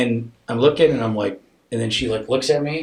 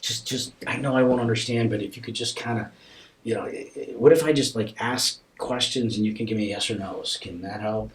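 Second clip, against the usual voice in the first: begging. Retold or imitated. Parent begging daughter to answer yes or no, gently pleading. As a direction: plead gently, stumbling over the start. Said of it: "and I begged her".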